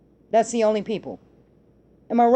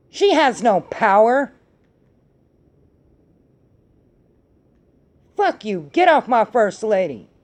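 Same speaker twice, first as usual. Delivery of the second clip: real anger; 3 dB louder than usual. Real, not acted. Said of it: "I'm just really mad about this".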